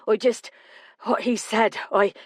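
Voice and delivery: apologetic, sentences left unfinished; faltering, breaking off. Acted. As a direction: struggle to explain, then stop short. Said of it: "He broke off".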